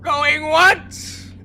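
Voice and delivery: loud auctioneer call. Acted. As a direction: announce it to the crowd. Auctioneer calling bids.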